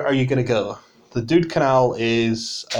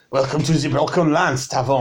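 put-on welcoming customers in a French accent; mock-French hospitality; French tavern keeper; 2 semitones higher than usual. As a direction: play a French-accented innkeeper. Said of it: "what's this tavern keeper's name".

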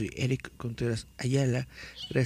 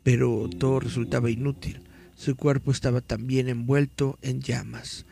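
dramatic horror story reading; story narration; 3 dB louder than usual. Acted. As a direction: read it like a campfire tale. Reads horror story aloud.

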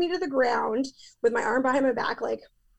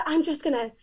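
whiny threat; 4 semitones higher than usual. Retold or imitated. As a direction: mimic his self-pitying threat, voice pitched up. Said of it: "And he goes".

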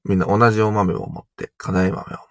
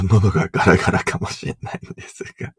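hoarse, rough throat; gravelly voice. Real, not acted. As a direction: talk through a scratchy throat.

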